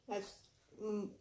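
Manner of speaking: talking while chewing; words round a bite of food; mouth full. Real, not acted. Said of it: "Sorry, you guys. I don't really like to talk with my mouth full".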